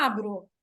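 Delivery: "Abro" com o A bem esticado; tônica no A. Shown as a demonstration. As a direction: alongue muito o A inicial de "Abro". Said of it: "A sílaba forte". ("Abro": A forte e longo, "bro" fraco)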